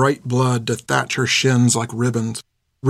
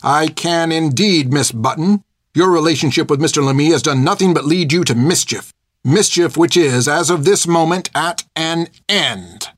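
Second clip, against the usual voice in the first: glaring Hilda; 4 semitones higher than usual. A narrator's reading. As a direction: hold each word over her like a verdict. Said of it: "turned abruptly and glared".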